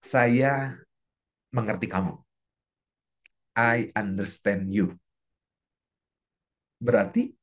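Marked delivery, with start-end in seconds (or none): 0.1-4.9 understanding. Shown as a demonstration. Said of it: "simpelnya kayak gini deh".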